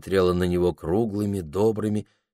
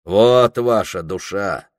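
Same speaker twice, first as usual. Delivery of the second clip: mocking challenge; 5 dB louder, slower than usual. Anfisa shaking her breasts.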